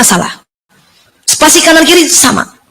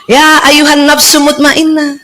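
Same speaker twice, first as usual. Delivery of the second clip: sweet angel call; slower than usual. Retold or imitated. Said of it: "Malaikat manggilnya enak".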